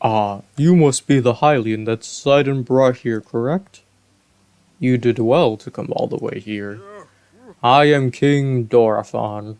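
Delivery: lightly voiced regal fish king; a hint of a booming Zora monarch; kingly Zora voice. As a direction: speak as a gracious old king. Voices King Dorephan's dialogue.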